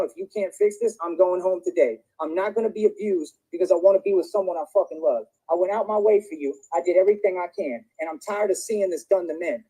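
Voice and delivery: lashing out in anger; angry rant. Real, not acted. Angry rant at girlfriend on stream.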